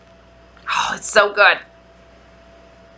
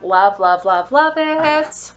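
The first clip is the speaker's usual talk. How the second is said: gushing; 4 dB louder, slower than usual. Real, not acted. Gushing over scent.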